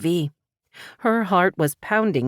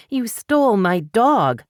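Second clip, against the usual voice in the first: higher, slow accusation with stress on stole; accusing; 6 semitones higher, 3 dB louder, slower than usual. A narrator's reading. Paris accusing the stranger, slow and pointed. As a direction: spell out the charge slowly.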